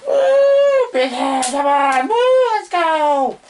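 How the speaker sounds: high, loud excited yelling; hype cheers. Real, not acted. Host cheering himself on before the show. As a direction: pump yourself up, shouting.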